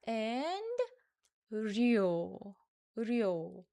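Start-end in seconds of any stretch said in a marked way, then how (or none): 1.5-3.6 료 alone, starting with an r sound; syllable said separately. Shown as a demonstration. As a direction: sound out 료 by itself with its original r onset. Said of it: "The second syllable starts with 르 sound".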